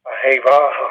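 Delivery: "A hey vaha" ending on an audible breathed h; final hey sounded out. Shown as a demonstration. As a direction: let the final h of "vaha" be heard. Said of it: "you have to sound out the hey".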